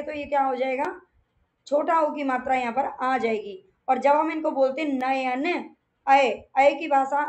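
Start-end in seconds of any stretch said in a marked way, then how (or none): 6.1-6.7 अय said on its own, a bit louder, the sound isolated; sound demo. Shown as a demonstration. Teacher isolating the अय sound in नयन for students. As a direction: lift out अय so it is heard plainly. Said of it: "अय की ध्वनि हमें सुनाई देती है".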